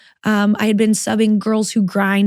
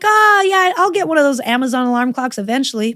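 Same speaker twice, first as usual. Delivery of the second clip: mock breezy self; 4 semitones higher than usual. Mocking her own past excuse.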